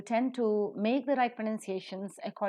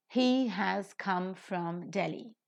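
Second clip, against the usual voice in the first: slow, from weak; stress on come and Delhi; much slower than usual. Shown as a demonstration. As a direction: come aspirated, Delhi accented. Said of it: "What words are accented here?".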